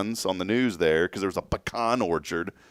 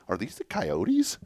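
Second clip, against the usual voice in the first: daughter's voice; 9 semitones higher, slower than usual. Retold or imitated. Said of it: "She goes".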